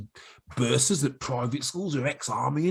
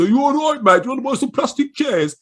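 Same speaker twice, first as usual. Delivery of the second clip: put-on higher, louder cheerful Black Country accent; 13 semitones higher, 9 dB louder than usual. Selling plastic chairs to grammar school staff, Black Country accent. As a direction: greet them like a Black Country mate. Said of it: "you're from Reading".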